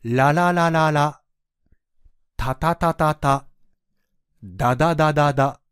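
each syllable clearly repeated five times; tongue-tap drill, crisp and even; syllable drill demo. Shown as a demonstration. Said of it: "試しに". (舌の動きを見せる発音練習)

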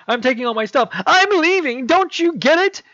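fed up and walking out on him; storming off. Acted. Carly to Peter, packing up and leaving, rising angry voice.

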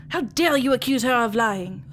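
tearful, indignant question; crying outrage. Acted. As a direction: cry it out at him. Sister defends her traumatized sister.

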